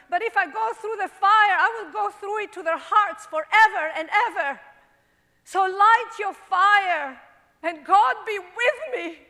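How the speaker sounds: dramatic monologue, hushed then building to a shout; performing Joan of Arc. Acted. Actress performs Joan of Arc for a woman on the bus, rising to defiant shouting. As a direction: Joan defying her judges, rising to fury. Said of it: "I just did Joan of Arc".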